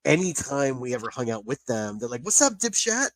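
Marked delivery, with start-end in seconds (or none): 2.2-3.1 higher, mock Texan twang on "What's up, dipshit?"; imitating Texan accent. Bridal party friends teasing the groom, mock Texan accent. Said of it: "mimicking her accent".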